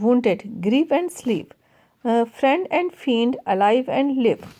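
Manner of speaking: slow, deliberate recitation; measured classroom poem reading. Acted. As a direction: read the verse line slowly for the class. Reading the poem line aloud.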